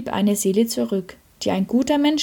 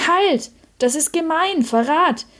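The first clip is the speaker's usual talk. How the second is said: high, louder cry of protest; indignant outcry; 8 semitones higher, 4 dB louder than usual. A narrator's reading. The sinless soul objects as the others are forgiven, indignant outcry. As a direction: call out in acted outrage, pitch raised. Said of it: "rief eine Stimme".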